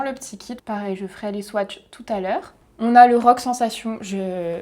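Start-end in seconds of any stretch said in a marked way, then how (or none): 2.8-4.0 English name in a French accent. Shown as a demonstration. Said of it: "je vais le dire avec le, l'accent français".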